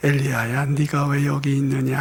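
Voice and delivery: soft, tender, very gentle and careful voice. Retelling God's words to Elijah, acted soft, gentle voice. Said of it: "세미한 소리로 말씀하셨어요 ... 아주 조심스럽게".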